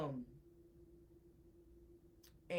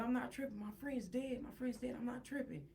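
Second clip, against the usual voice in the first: retold insistence; 4 semitones higher, 6 dB quieter than usual. Retold insisting friend is dead.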